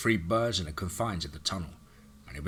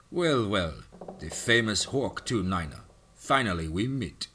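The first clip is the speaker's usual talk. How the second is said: lightly voiced Russian accent; a hint of a sly Russian villain; slower than usual. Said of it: "spoke in his thick Russian accent".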